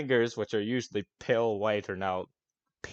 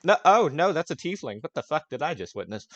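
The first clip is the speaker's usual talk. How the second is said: startled; 7 semitones higher, 7 dB louder than usual. Acted. NPC startled by tiefling.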